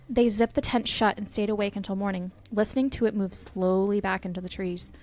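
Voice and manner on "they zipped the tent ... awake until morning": ordinary delivery, nothing marked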